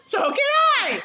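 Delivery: high comic holler; mock yelled comeback. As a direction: shout it back as a joking retort. Retold comeback to screaming.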